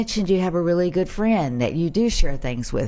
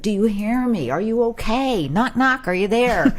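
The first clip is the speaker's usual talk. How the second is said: higher-pitched, acted prodding questions; checking for response; 5 semitones higher than usual. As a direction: playfully try to rouse someone who's zoned out. Acts out rousing an unresponsive person.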